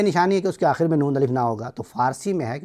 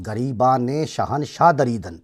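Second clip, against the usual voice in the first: poem recital; 3 semitones lower, slower than usual. Acted. Recites Persian verse.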